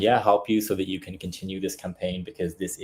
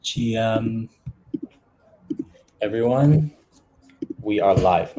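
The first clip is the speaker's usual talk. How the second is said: energetic stream intro; 3 semitones higher, 3 dB louder, slower than usual. Real, not acted. Live stream opening greeting.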